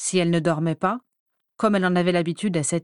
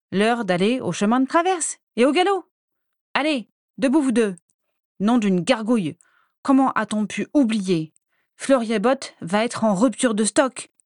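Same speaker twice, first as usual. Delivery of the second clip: high and loud, urgent; bossy hurrying shout; 4 semitones higher, 4 dB louder than usual. Acted. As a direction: chivvy them along loudly. Bellatrix hurrying her sisters.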